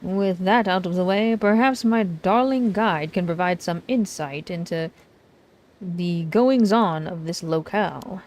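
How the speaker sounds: hammed-up showman introducing himself; dramatic self-introduction. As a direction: present yourself with grand flair. Voices dramatic author Arnav.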